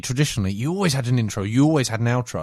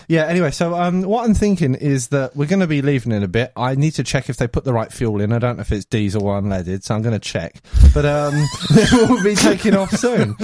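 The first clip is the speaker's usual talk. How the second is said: clueless pilot; 2 semitones higher, 4 dB louder than usual. Acted. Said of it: "the guy gets on and he goes".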